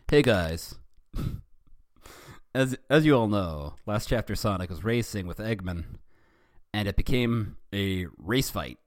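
lightly put-on chirpy author voice; Charizard thirty's voice. Reader voicing the fanfic author's note, lightly put-on chirpy voice. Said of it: "reading this in Charizard thirty's voice".

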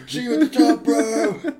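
high, put-on voice for the doomed explorer; mock Oates farewell. Joking about Oates walking off into the cold, high mock voice. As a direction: squeak out a cheery goodbye. Imitating Oates leaving in diary joke.

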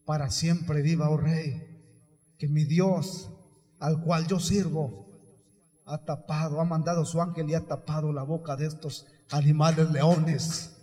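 lightly voiced answer, pitched low; a hint of a solemn, low-voiced captive; Daniel. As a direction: answer the king in a low, measured voice. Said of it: "responde la voz de Daniel".

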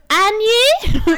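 high, laughing mock query; imitated prank caller. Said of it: "my favourite was".

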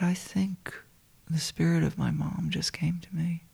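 soft, half-whispered confession; hushed confiding. Retold or imitated. Speaker confiding to her friend about her mom's spirit, hushed. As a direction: confide it quietly, in awe.

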